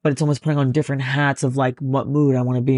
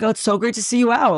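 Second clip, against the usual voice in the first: perky fake delight; 6 semitones higher than usual.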